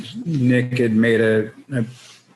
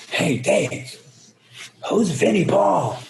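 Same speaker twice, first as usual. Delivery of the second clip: puzzled aside; 9 semitones higher, slower than usual. Retold or imitated. Voicing himself asking Dave.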